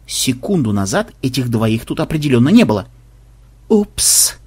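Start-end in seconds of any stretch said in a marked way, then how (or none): 3.7-4.4 small bewildered oops; confused little slip of a word; taken aback. A narrator's reading. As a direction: say it at a loss. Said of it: "растерянно заметил Ксенобайт".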